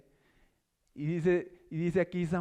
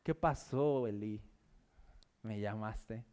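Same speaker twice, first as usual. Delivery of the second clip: soft, much quieter, drowsy question; sleepy boy asking; 7 semitones lower, 6 dB quieter, slower than usual. Pretend. Young Samuel asking Elí softly, drowsy. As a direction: ask softly as if just woken. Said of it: "Para que él dijera".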